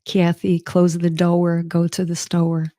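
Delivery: put-on slow Southern accent, drawing out Kathy; a gentle Southern accent imitating mom, slow; Southern drawl imitation. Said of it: "had an extra, uh, syllable".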